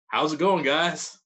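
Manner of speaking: a hint of a cheery host voice; friendly. Singer greeting an interviewer, mildly cheery. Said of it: "And just friendly".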